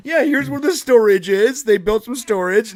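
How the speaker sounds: a touch of mock sales patter; real estate agent. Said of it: "I become that lady's real estate agent".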